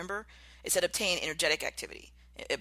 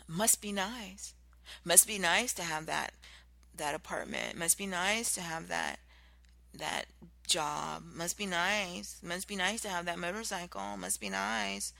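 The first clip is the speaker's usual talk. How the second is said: snide; 3 semitones higher, slower than usual. Retold or imitated. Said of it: "rather meanly or snidely".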